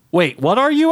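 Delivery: high, alarmed shout; yelled question. A narrator's reading. Man questions the voice in the can, yelling. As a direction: shout it in bewilderment. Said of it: "I yelled".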